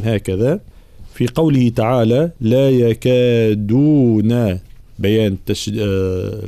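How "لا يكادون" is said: "لا يكادون" slowly chanted with a hard d; long vowels and a firm voiced "د" in "يكادون"; voiced, firm dal. Shown as a demonstration. Teacher showing the dal, "يكادون" with firm d. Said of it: "الجهر والشدة في حرف الدال".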